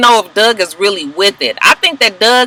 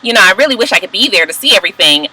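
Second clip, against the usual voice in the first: flippant; faster than usual. Retold or imitated. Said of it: "that fucking flippant voice".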